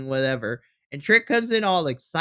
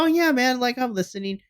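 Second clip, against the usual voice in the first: mock half-listening reply; 8 semitones higher than usual. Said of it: "Melo's not really paying attention".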